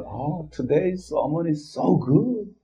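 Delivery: drawn-out, mimicked English compliment; mock gushing praise. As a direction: imitate a flattered churchgoer, stretching the words. Mimics a flattered churchgoer praising the sermon.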